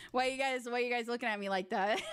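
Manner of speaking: giggling through the words; laughing. Acted. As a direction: laugh while protesting. Repeats it laughing.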